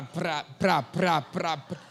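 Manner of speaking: rapid pra pra pra like gunfire; machine-gun tongues imitation. Pastor imitating his first tongues, machine-gun syllables. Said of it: "um som de metralhadora".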